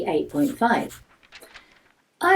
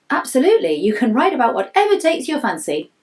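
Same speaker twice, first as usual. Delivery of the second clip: a hint of an upbeat teacher, higher and louder; hearty teacher voice; 5 semitones higher, 4 dB louder than usual. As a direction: lightly play the keen teacher saying yes. Boy quotes teacher's answer.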